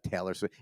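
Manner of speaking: Taylor said with a long ay vowel, TAY-lor; proper Taylor. Shown as a demonstration. Comic showing the correct way to say Taylor, careful. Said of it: "it's pronounced Taylor".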